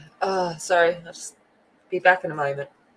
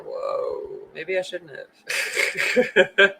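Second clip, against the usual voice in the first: mock dismay, laughing; much slower than usual. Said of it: "And then you're like".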